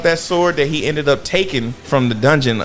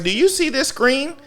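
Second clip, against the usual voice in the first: high, urgent question; worried question; 10 semitones higher than usual. Retold or imitated. Recapping, he asks his sister, high and worried. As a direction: ask his sister, alarmed. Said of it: "He was like".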